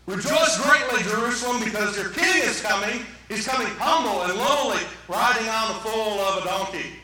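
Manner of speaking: loud opening, ringing out the prophecy; prophetic proclamation. Acted. Preacher quotes Zechariah's prophecy to church, proclaiming. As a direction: proclaim it to the whole city. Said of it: "the prophet Zechariah prophesied".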